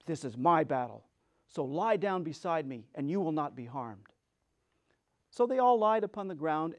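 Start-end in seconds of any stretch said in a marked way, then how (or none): 0.0-4.1 Scarecrow reassuring. Acted. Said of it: "But the Scarecrow said".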